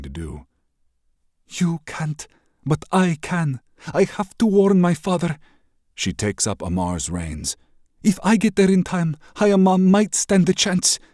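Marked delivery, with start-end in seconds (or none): 1.6-11.0 put-on high, loud, defiant young princess. Princess defies the raider prince, loud and high. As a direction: stand tall and refuse him proudly. Benoit resolves to go.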